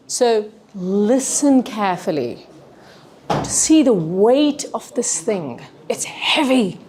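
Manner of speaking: slow, weighty presenter demo; acted-out slow delivery. Shown as a demonstration. Trainer acting out the show gesture for students, slow and weighty. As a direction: draw it out as if lifting something heavy. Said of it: "Then we have the show, where you act".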